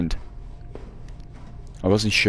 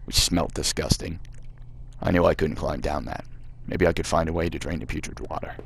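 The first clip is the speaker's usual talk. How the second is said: put-on reading the game text in a light American accent; 3 semitones lower, 5 dB quieter than usual. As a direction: narrate it like an American storyteller, gently put on. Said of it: "I'm really regretting doing the American voice now".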